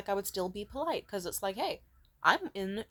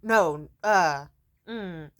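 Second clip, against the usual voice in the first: mocking the waiter; 8 dB louder, much slower than usual. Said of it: "He was like".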